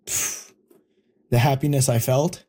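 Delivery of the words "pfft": short, soft puff of air; heavy exhale. Real, not acted. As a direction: blow out a quiet "pfft". Overwhelmed, recalling the happy phone call.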